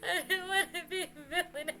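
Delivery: whining through laughter; half-laughing, half-sobbing complaint; laugh-crying whine. Acted.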